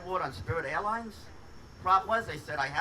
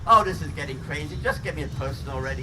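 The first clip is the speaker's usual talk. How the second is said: frustrated outburst; 6 dB louder than usual. Retold or imitated. Frustrated caller yells at menu.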